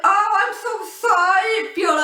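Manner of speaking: retold gushing "so sorry"; imitated flustered apology. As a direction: act out someone rushing to apologize.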